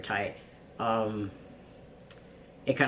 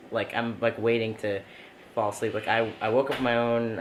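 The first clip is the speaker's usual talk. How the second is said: ordinary talk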